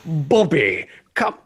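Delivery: put-on high, slow silly German accent. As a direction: ham up a stiff German accent. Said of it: "silly German".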